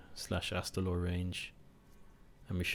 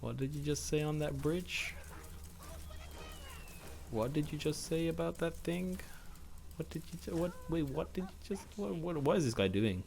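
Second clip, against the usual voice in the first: shocked onlooker; 7 semitones higher, 5 dB quieter than usual. Retold or imitated.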